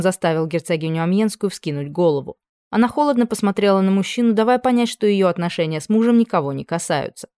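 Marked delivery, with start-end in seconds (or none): none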